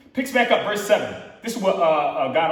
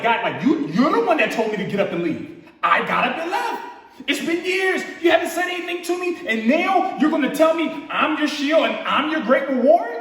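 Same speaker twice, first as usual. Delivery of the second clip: mock-indignant Abram venting at God; upset; 3 semitones higher than usual. Abram venting to God after years of silence, mildly exasperated. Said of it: "He sound a little bit upset".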